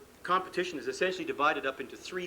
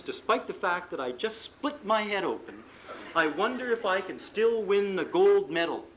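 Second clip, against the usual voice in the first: Greg Louganis; 3 semitones higher than usual. Retold or imitated. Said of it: "says Greg Louganis".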